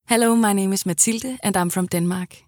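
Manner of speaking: English with a light Danish accent; Danish-accented English, friendly and plain. Shown as a demonstration. Voice actor pitching her Danish-accented English. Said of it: "my Danglish could sound a bit like this".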